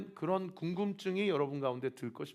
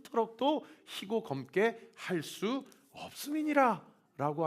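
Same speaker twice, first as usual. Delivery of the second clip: measured, slightly raised scripture reading; 3 semitones higher than usual. Acted. Pastor reads Jesus' words to congregation, solemn. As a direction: read the Lord's words with weight.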